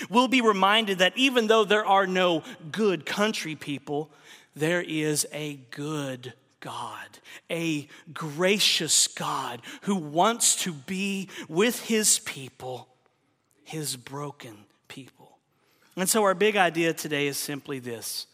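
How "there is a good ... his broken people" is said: tender slow preaching. Acted. Preacher to congregation, slow and tender. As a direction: linger on it tenderly. Slows on God's goodness.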